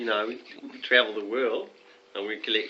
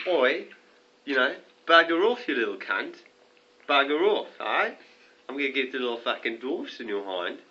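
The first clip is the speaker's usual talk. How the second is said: angry yell at dwarf. Retold or imitated. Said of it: "I'm, like, going".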